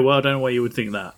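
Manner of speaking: said through a laugh, quick; light laughing imitation of a reply; laughing mock reply. Co-host feeds friend a line, laughing mock reply.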